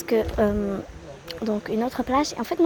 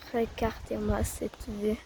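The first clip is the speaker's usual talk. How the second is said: soft, slow and quiet; hushed awe; 2 semitones lower, 6 dB quieter, slower than usual. Real, not acted. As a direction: murmur it in wonder. Admire la vue, doucement. (émerveillé à voix basse)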